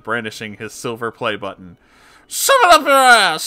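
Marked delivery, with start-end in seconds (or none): 2.3-3.5 high shrieking demon snarl; demonic snarl. Acted. Possessed Christine snarling back at Gino. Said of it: "she snarled back".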